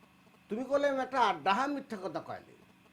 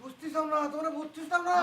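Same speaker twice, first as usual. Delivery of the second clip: raised pitch, insistent complaint; frustrated protest; 5 semitones higher than usual. Acted. Tells the family they won't understand, frustrated. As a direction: protest that nobody listens.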